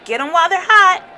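high, loud stretched-out hawker's cry; ballpark vendor. A narrator's reading. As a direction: call your wares across the stands. Ballpark vendor calling out in a story.

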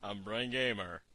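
a joking deep-voiced movie villain; mock deep voice. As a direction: put on a hammed-up deep menace. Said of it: "wants to sound like his testicles dropped".

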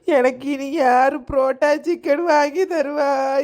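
mock weeping. Wife weeps as husband leaves abroad.

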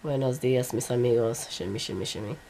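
low hoarse sick voice, hammed up; croaky campy drag queen greeting. Real, not acted. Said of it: "I sound like a drag queen".

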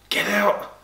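two Brentford fans in the wrong end, crying out high; retold cry. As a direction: wail it as the ball goes in. Brothers groaning at the goal.

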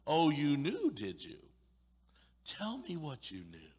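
biting sarcasm toward the lazy servant; sarcastic master. Acted. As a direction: needle the servant with mock surprise. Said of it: "this sarcasm".

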